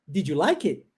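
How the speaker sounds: "Did you like it?" with the t of "it" dropped, "did you" run together as didju; swallowed final T. Shown as a demonstration. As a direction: eat the final T of "it". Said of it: "Mais uma vez, comigo". (engolindo o T final de "it")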